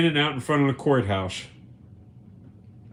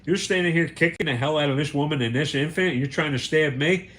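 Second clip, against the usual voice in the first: furious; 3 semitones higher than usual. Retold or imitated. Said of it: "red hot pissed off".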